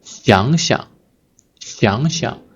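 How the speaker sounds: 想想 rising first, light second syllable; rising then gentle. Shown as a demonstration. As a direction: lift the first 想, let the second 想 fall lightly. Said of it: "is a gentle, gentle tone".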